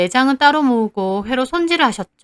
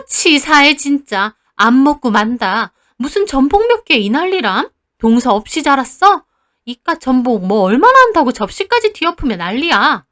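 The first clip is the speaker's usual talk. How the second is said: indignant; 3 semitones higher, 4 dB louder than usual. Acted. Aunt's sulky angry rant.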